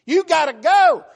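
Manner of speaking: high, loud final order; loud insistence. Acted. Abraham orders Hagar out, high and shouting. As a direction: shout the verdict, leaving no room.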